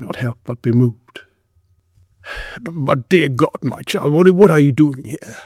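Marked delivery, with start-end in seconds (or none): 2.6-5.4 sympathetic. Acted. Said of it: "the sympathy of his voice".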